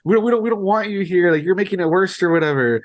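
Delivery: retold mad lady. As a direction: act out an upset bystander, lightly. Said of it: "the lady gets all mad".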